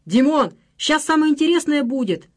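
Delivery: loud, high chorus of lads; rowdy call. A narrator's reading. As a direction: egg him on to stay. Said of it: "заголосили все в один голос". (громкий дружный зазыв)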